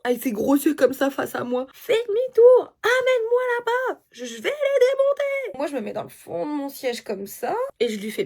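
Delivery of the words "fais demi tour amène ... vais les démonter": retold furious yell. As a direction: bark the order like an angry boyfriend yelling in the car. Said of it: "En me criant dessus".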